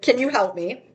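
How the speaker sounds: put-on tearful, crying voice. Retelling a phone call asking relatives for help: retelling own crying plea. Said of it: "when I'm literally crying on the phone for help".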